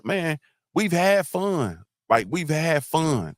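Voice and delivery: "had" stretched and high, slow; stress on had. Real, not acted. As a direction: lean hard on "had". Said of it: "defending against having fun".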